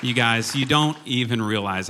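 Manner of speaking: loud, high hype for the team; rally the room like a cheerleader; all-hands ceo. Real, not acted. Hyping up the worship team.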